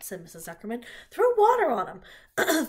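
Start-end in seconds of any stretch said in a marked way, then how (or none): 1.1-2.7 high, loud, drawn-out order; raised voice in an emergency; urgent call. A narrator's reading. Woman calls for help, pig fainted.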